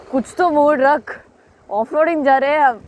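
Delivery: fast, high, hyped-up shout; excited catchphrase. Retold or imitated. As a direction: rattle it off like a pumped-up rider. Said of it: "First famous line was".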